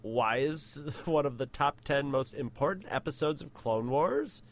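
lightly voiced Valley Girl; a hint of Valley Girl lilt. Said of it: "the Valley Girl voice for you".

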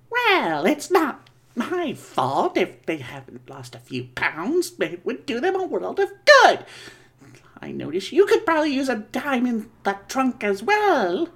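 Crypt Keeper voice. Acted. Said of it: "Crypt Keeper here".

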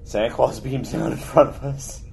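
laughing through the words; can't hold back a giggle mid-sentence; cracking up mid-line. Real, not acted. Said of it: "I'm sorry I'm laughing at my own joke".

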